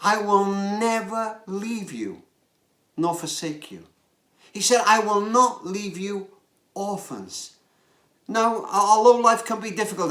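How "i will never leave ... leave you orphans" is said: tender promise. Retold or imitated. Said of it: "put it like this".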